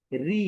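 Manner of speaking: light "রি", not rounded; thin R. Shown as a demonstration. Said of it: "পাতলা".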